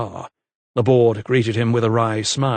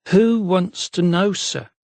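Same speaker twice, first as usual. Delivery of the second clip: wary; 8 semitones higher, slower than usual. A narrator's reading. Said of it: "she replied warily".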